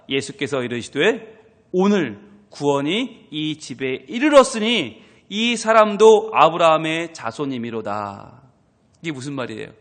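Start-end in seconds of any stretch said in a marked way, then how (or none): 1.7-8.4 slow solemn proclamation; solemn slow Jesus. Acted. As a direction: proclaim it slowly like the Lord. (예수님처럼 천천히 엄숙하게 선포)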